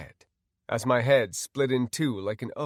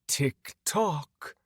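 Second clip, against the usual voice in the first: taunting villain; 4 semitones higher than usual. Acted. Villain taunts while threatening hostage.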